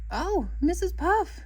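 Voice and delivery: high, slow, swooning gush. A narrator's reading. SpongeBob gushing over his teacher, high and slow. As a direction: pour out the delight, drawn out. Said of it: "gushed SpongeBob".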